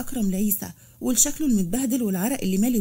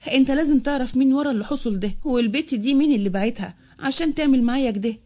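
mildly angry demand; understated indignant accusation. Acted. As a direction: insist on answers with a touch of anger. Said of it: "وقال بغضب".

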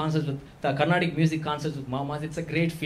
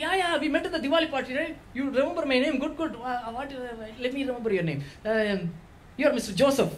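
Tambram uncle voice; 6 semitones higher than usual. Retold or imitated. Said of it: "He's like".

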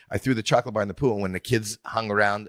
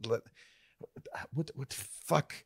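stunned panic; 5 semitones higher, 10 dB quieter than usual. Retold or imitated. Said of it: "and I realize".

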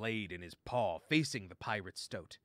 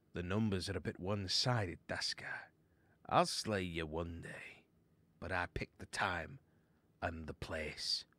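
defiant warrior mouse; 3 semitones lower than usual. Acted. Luke answers the pirate's challenge.

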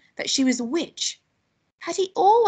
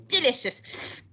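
higher, savouring DELICIOUS; relishing; 5 semitones higher, slower than usual. Acted. Grandma relishes eating slugs.

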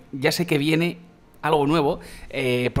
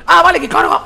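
surprised realization; 12 dB louder than usual. Real, not acted. Gun suddenly charges up.

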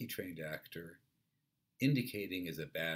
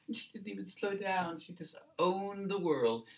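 high, loud, disapproving account; indignant witness; 14 semitones higher, 6 dB louder than usual. Acted. Second witness blames rich lady to police, indignant and high. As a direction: stretch it out in outrage at her. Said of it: "Then somebody else says".

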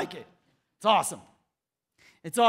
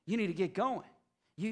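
ordinary talk, nothing marked

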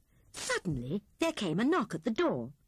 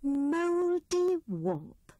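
glad cry; 5 semitones higher, slower than usual. A narrator's reading. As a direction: welcome the guest with delight. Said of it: "she cried".

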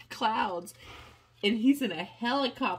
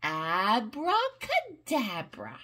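slow magic word; slower than usual. Shown as a demonstration. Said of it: "Can you say that?".

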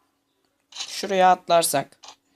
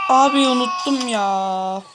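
higher, drawn-out wail of frustration; dismayed whine; 5 semitones higher than usual. Real, not acted. Gamer forgot to jump and failed, dismayed whine. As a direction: lament the slip, dragging out the words. Laments forgetting the jump after failing.

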